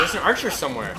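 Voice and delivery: loud warning call; alarmed call. Real, not acted. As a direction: call it out urgently. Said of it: "repeated louder".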